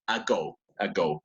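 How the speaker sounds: a-GO, weight on the second syllable go; ago, stressing go. Shown as a demonstration. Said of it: "some people say ago or something like that, but it is ago".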